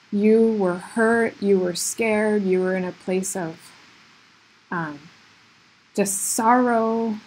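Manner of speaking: emotional. Real, not acted. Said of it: "I thought I wasn't gonna get emotional".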